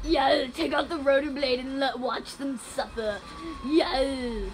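put-on game villain character; terrorizer voice. Gamer greeting viewers as the terrorizer, villain voice. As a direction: play the terrorizer greeting his fans. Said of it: "I'm the terrorizer".

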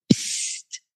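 soft whispered shush; hushing. Acted. Momo hushes Pfiffi, soft whispered shush. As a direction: hush him without a sound.

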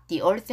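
"the earth" said as "thee earth"; "thee" before vowel. Shown as a demonstration. Teacher explaining articles before vowels, "the earth" as "thee earth". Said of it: "모음 앞에서는 더가 아니라 뒤로 발음".

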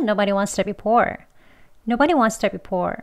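wants to blurred into one light beat; relaxed natural speed, t swallowed; weaker still. Shown as a demonstration. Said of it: "더 약하게 하면".

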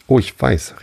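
a bright, lively cry of discovery; exclaimed. A narrator's reading. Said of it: "rief Alice aus". (lebhaft ausgerufen)

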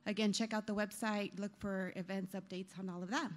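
breathless and trailing off quietly; running out of air mid-sentence; out of breath. Real, not acted. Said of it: "oh my gosh, I'm out of breath now".

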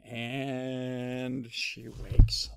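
slow, drawn-out storytelling; suspenseful narration. A narrator's reading. Storyteller as the bears stare at Goldilocks, slow suspense. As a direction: stretch it out to build suspense.

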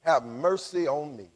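low, hushed plea for mercy; soft plea. Acted. Blind man begs Jesus for mercy, soft plea. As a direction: drop right down and plead quietly.

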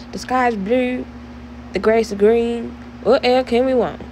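lightly put-on cowboy accent, still being practised; a hint of cowboy accent, half-sung. Shown as a demonstration. Vlogger tries out her new cowboy accent for viewers, lightly put-on. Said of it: "Yo, I have this new accent".

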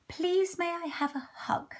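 high, timid little hedgehog voice; small pleading hedgehog. Acted. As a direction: ask shyly in a small high voice. Hedgehog asks for hug.

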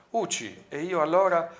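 pained complaint rising high and loud; acted grumble that jumps up at the end; complaining. A narrator's reading. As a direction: protest at being left out. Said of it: "si lamentò Midnight".

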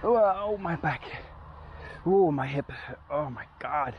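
sharp cries of pain, hurting back. Real, not acted. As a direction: yelp from real pain after a fall. Hurt back and hip after fall.

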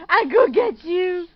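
loud, fast playful threat; excited. Acted. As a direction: rush it out in the chase. Chase game building up.

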